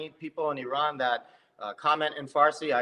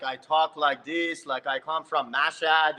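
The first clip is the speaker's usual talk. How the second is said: Persian accent; slower than usual. Shown as a demonstration. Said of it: "when I do the Persian accent".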